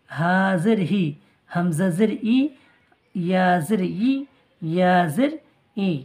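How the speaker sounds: slow, drawn-out recitation of Arabic letters with জের; slow letter drill. Shown as a demonstration. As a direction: recite each letter deliberately for students.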